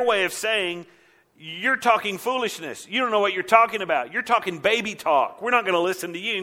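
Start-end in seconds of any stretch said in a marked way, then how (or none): 1.4-6.4 higher-pitched scornful dismissal; mocking rebuttal. Leaders refusing to listen to Isaiah, mocking. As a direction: brush the speaker off with rising impatience. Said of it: "that mocking rebuttal".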